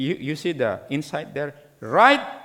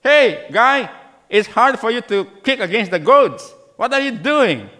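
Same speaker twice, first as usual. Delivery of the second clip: a hint of a booming heavenly voice, higher and louder; lightly voiced divine rebuke; 7 semitones higher, 6 dB louder than usual. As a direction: call down from heaven to Paul. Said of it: "the voice from heaven says".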